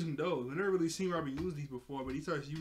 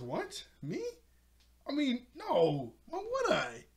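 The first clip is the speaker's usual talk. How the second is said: high, slow guilty denial; defensive Beast Boy; 12 semitones higher, 4 dB louder, slower than usual. Acted. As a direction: squeak out a nervous innocent no.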